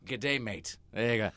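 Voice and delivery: lightly imitated Australian farewell; mock Australian accent. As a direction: do a fake Australian goodbye. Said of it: "Dumb clerk speaks an Australian accent".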